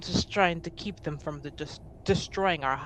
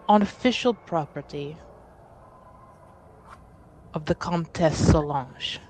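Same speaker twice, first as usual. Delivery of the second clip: measured, careful official request with long pauses; lightly voiced envoy, stately and deliberate; formal envoy; 4 dB quieter than usual. Envoy making an official request for House Montbéliard, formal and careful.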